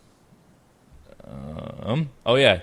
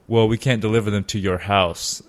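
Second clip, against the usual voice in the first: laughing through the line. Retold or imitated. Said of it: "came back with a sick burn".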